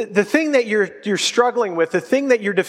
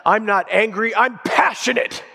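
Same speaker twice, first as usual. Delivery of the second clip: defensive denial; 2 semitones higher than usual. Retold or imitated. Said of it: "he leans back and he says".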